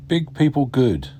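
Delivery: Big people good read as a word-for-word gloss; a light comic literal reading; mock literal translation. Shown as a demonstration. Teacher glossing 大家好 word for word, lightly amused. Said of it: "as we say in English".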